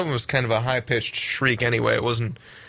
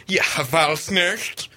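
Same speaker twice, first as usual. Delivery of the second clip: mock Old Norse curse, drawn out slowly; slow, hammed-up Old Norse oath; Old Norse swearing; 3 semitones higher, much slower than usual. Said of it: "I can swear at you in Old Norse".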